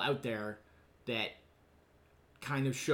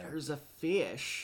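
drawn-out character quote, very slow; lightly put-on film-quote voice; Jack Nance; 4 dB quieter, much slower than usual. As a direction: stretch it out as a teasing hint. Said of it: "Jack Nance".

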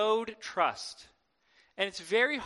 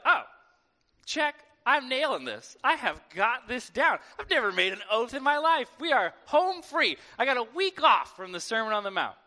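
mock smug confidence; 3 semitones higher, 4 dB louder than usual. Mock smug Christian reaction.

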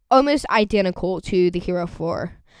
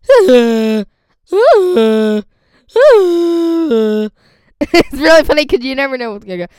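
laughing; 4 semitones higher, 10 dB louder than usual. Real, not acted. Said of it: "it's just really funny".

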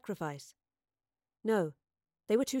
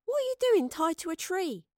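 high-pitched, baffled query; incredulous question; 10 semitones higher than usual. A narrator's reading. Astrid questions the professor tied up, high and incredulous. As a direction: ask it in disbelief, pitch up.

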